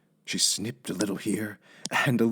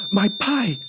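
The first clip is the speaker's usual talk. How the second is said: exclaiming; 12 semitones higher, 4 dB louder than usual. A narrator's reading. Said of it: "exclaimed Amelia Bedelia".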